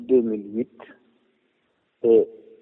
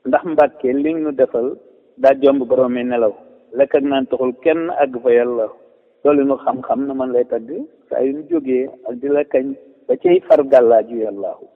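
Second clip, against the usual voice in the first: measured verse reading with falling refrain; poem recitation; 4 dB louder than usual. Real, not acted. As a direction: recite praise verses line by line, dropping on the refrain. Recites own praise poem.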